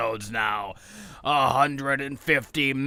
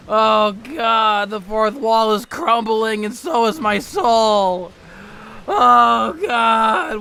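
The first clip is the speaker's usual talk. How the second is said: much higher, loud mock-panicked wail; theatrical existential meltdown, louder and much higher; hammed-up panic; 7 semitones higher, 5 dB louder than usual. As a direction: shriek it as if your soul is crumbling. Fourth-wall breakdown meltdown.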